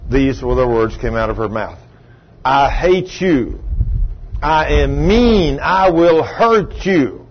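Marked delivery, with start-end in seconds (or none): 2.4-7.3 slow, drawn-out demonic threat; each word dragged out, cold and menacing. Retold or imitated. Possessed woman threatens the preacher, slow menacing demon voice.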